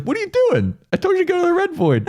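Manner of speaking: high, fast exasperated god; high rushed scolding; frantic god. Retold or imitated. God chasing runaway Nishi.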